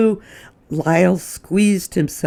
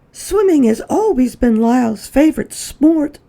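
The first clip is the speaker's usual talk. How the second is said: smiling; 11 semitones higher, 5 dB louder than usual. Acted. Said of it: "smiled Missus Prim".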